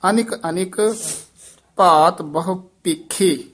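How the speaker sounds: ਭਾਤ ਬਹੁ ਭੇਖੇ closed with a full pause; pause placement. Shown as a demonstration. Teacher showing the pause, stopping clearly after ਭੇਖੇ. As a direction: read deliberately, then stop after ਭੇਖੇ. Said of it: "ਇੱਥੇ ਵਿਸਰਾਮ".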